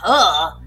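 imitated grunt. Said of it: "he's gonna come with that".

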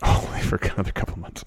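breathy laughing repeat of the words; laughing echo. Real, not acted. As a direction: laugh it back at him.

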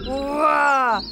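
loud growling bear roar; a wordless, loud bear growl; angry bear growl. Acted. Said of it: "growled the angry bear".

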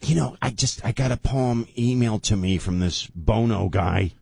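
mock a politician who barely knows the singer; Nancy Pelosi. Host playing Pelosi introducing the emailed poem, mock politician voice. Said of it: "He sent some poem about Ukraine to Nancy Pelosi".

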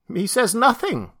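high bleating creature voice; bleating satyr voice. Acted. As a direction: bleat it like a goat man. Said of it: "said the satyr".

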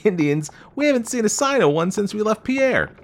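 loud, high, scornful outburst; scornful young man. A narrator's reading. Young man scoffs at talk of Indians, scornful. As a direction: scoff loudly, voice pitched well up.

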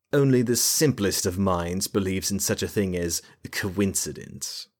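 coincidence sneered with extra weight; derisive stress. A narrator's reading. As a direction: lean on coincidence with contempt. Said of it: "an extra emphasis and a bit of derision to the last word".

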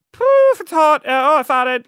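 high, loud "Poof, it's hot", then fumbling cover-up; hammed-up, blurting at a hot stranger then backpedalling; blurted catcall. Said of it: "And then I go".

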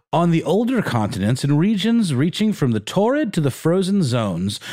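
put-on reading an old report aloud; stately official reading; formal reading.

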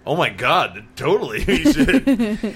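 high, slow, overdone gush of agreement; mock gushing. Replying to a fan about City Hall, mock gushing. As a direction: gush it out like a starstruck yes.

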